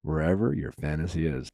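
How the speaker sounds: sultry and low, taking your time; sexy voice. Acted. It's the sexy voice for me.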